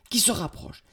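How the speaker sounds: high, tense narration; mounting alarm. A narrator's reading. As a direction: tell of danger closing in. Narrator builds the threat, first take.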